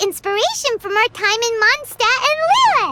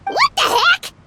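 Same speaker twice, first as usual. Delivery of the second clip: incredulous; 9 semitones higher than usual. Real, not acted. Editor approves the odd story.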